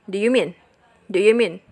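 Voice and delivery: "do you" run together with schwa, d'yuh mean; linked, reduced words. Shown as a demonstration. Teacher showing how "do you mean" links, reduced with schwa. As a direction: link "do you mean" into one quick unit. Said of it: "bisa tersambung atau menjadi schwa".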